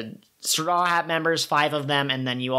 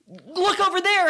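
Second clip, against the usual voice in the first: sneaky trick. Retold or imitated. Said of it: "He is going to, like".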